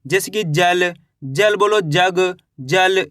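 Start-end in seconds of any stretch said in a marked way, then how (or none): 2.6-3.1 जल said slowly as a model word; pronunciation demo. Shown as a demonstration. Teacher showing the letter through an example word, slow demonstrative जल. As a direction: draw out जल so its first sound is clear. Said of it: "इस तरीके से जा".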